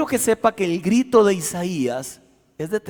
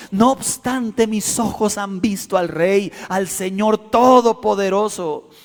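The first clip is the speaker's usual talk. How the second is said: clamor intenso; 3 semitones higher than usual. Acted.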